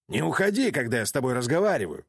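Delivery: furious roar to stop her leaving; roaring demand. A narrator's reading. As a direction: bellow after her as she walks off. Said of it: "проревел он".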